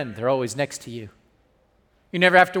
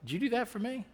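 much softer, almost breathed question; hushed question; 3 semitones higher, 15 dB quieter, faster than usual. Retold or imitated. Husband asking his wife during the movie, hushed. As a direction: ask it quietly, half teasing. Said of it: "I looked over at Jackie like".

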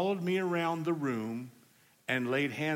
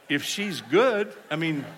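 laughing; slower than usual. Real, not acted. Preacher laughing at story.

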